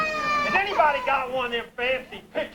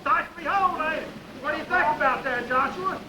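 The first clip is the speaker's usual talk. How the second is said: excited backwoods father, a bit higher; proud country pa showing off the big town; Pa bragging to his backward boys; hillbilly Pa; 6 semitones higher than usual. Acted.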